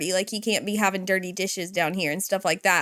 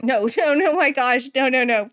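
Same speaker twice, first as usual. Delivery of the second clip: laughing no; 3 semitones higher, 4 dB louder than usual. Real, not acted. Laughing at price mistake.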